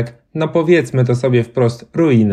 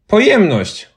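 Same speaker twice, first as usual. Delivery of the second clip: put-on high, loud smart-aleck boy; a boy blurts out the wrong word; cheeky boy; 9 semitones higher, 4 dB louder, slower than usual. A narrator's reading. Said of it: "odpowiedział inny chłopiec".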